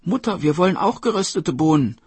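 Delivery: put-on wheedling child. Children want beans from Mother, eager high begging. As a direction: ask eagerly for a share.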